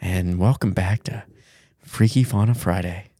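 mock ASMR host, unhurried; relaxing ASMR. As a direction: ease listeners in with a put-on relaxing voice. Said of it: "do the whole episode in this voice".

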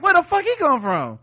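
high, loud incredulous outburst; startled disbelief. Retold or imitated. Recapper replaying a reaction to Tick's sudden arrival, startled disbelief. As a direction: react as if he popped from nowhere.

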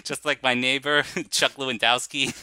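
put-on loud, hammy Chicago accent. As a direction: lay on a bad Chicago accent. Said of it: "in bad Chicago accents".

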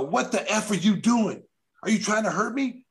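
replaying the shove argument with heat; retold angry outburst. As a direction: fire it back at him in disbelief. Retold yelling at pushing player.

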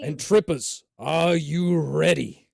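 hype call. Real, not acted. Calling out to players.

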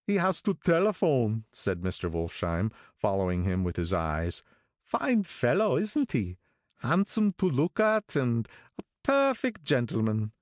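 approving Wolfsheim voice, pitched high; admiring old gangster. Acted. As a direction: boast about him like a proud patron. Wolfsheim praises Gatsby.

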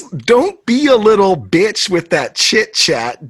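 slow reading. Retold or imitated. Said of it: "Listen to this".

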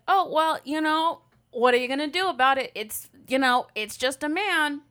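dismissive excusing. Retold or imitated. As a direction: mimic people brushing off men's behavior. Mimicking people excusing men.

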